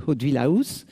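"Hauteville House" said the French way, no English accent; accent français sur "Hauteville House"; French accent on English name. Real, not acted. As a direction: read "Hauteville House" with plain French sounds, not English. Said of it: "excusez mon accent anglais, mon absence d'accent anglais".

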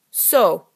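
"So," landed on hard and loud, as a full statement; emphatic so. A narrator's reading. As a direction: lean on "So," like it ends the thought. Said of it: "landing on the word with emphasis".

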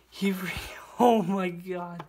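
breathless laugh into a whisper; a stunned giggly whisper; awed laughing whisper. Real, not acted. Stunned opening a package.

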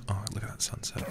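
hushed whisper of awe; awed whisper. Real, not acted. Streamer spotting a sunset, hushed awe. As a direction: breathe it out in wonder.

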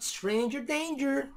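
high, loud, drawn-out warning; singsong it up high as a warning; mock alarm. Reader guesses girl's thought, mock alarm.

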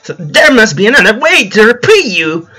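stammering plea. A narrator's reading. Mugman pleading with the devil for his life, mild stammering plea. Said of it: "Mugman stammered".

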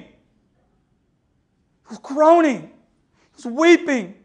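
very slow, aching delivery; slow heavy-hearted telling; emotional slow. Real, not acted. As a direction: drag each word out in grief. Preacher moved telling of dad.

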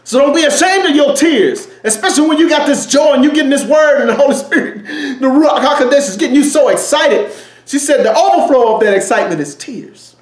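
bubbling over with joy, near crying; joyful overflow. Real, not acted. Preacher overflowing with joy to the congregation, laughing near tears.

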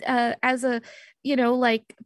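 sheepish, searching for the words; awkward excuse. Acted. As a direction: stammer your way through a tentative plea. Stammers excuse to jealous friend.

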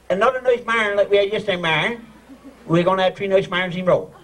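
"marn" said as one syllable to rhyme with barn; "marns" with no -ing ending; Newfoundland phrase demo. Shown as a demonstration. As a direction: show them "nice marn" in a Newfoundland accent. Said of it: "Like this one".

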